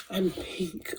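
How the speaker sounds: soft confession. Real, not acted. Confiding to viewers she's pink, softly. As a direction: say it almost to yourself. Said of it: "soft aside".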